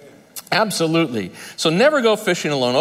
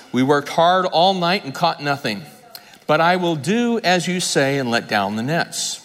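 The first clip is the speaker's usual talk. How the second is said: measured, lower Bible reading; scripture reading; 3 semitones lower than usual. Acted. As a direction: read the passage to the congregation. Reads Luke 5 aloud.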